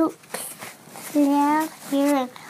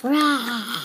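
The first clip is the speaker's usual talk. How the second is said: monster roar; 5 semitones lower than usual. Pretend. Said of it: "What does Rancor say?".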